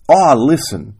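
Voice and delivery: mildly frustrated husband's protest; groaned. Acted. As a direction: groan it as a plea to be heard. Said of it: "Parker groaned".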